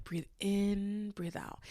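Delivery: soft, calming retold instruction; calming coach. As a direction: gently talk someone through a breath. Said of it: "Her voice is so calming".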